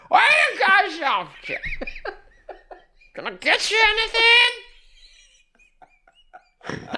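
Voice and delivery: put-on loud high Jersey accent, laughing. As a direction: ham up a Jersey limo driver. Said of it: "doing a full Jersey accent".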